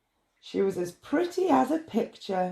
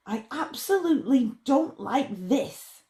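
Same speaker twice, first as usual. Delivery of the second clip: frowning; 5 semitones higher than usual. Acted. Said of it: "said Pearlie with a frown".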